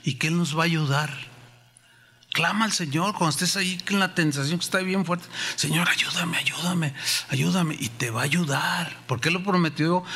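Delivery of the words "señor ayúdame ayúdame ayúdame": urgent whispered prayer; whispered pleading to God; whispered plea. Pretend. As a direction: breathe it out as a desperate plea.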